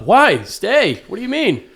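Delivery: high, loud mock pleading; pleading girlfriend. Girlfriend to departing soldier, high mock pleading. Voices girlfriend begging him to stay.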